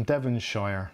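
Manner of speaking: Devonshire said the American way; American-style pronunciation. Acted. Streamer imitating how the US says a county name, American-style pronunciation. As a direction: say "Devonshire" as an American would, with a full "shire". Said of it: "as they would say in the U S".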